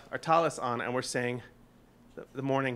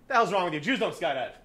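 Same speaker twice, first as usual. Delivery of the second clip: dad scolding; 3 semitones higher than usual. Retold or imitated. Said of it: "My dad always had a saying".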